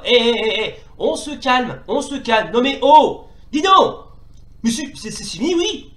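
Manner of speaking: loud, high "hey, calm down" at enemies; outraged shout. Real, not acted. Player yelling at the mob beating him up, outraged. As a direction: yell in mock outrage at the attackers.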